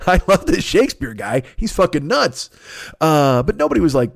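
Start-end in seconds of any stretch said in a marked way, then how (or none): 0.1-2.5 higher gleeful movie tough guy; a lighter Tom Sizemore take. Retold or imitated. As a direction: grin through it like Sizemore. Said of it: "Fucking Tom Sizemore in True Romance".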